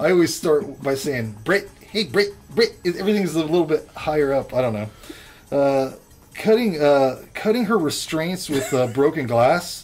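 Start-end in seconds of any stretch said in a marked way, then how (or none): 1.4-2.8 high-pitched New Zealand accent. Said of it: "if you do wanna do New Zealand".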